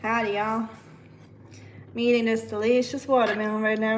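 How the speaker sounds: amateur southern US twang; bad southern accent. Shown as a demonstration. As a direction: have a shaky go at a southern accent. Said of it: "I have the worst southern accent".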